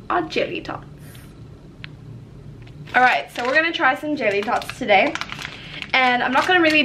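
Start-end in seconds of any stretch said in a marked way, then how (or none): 0.1-0.9 whispered reveal. Real, not acted.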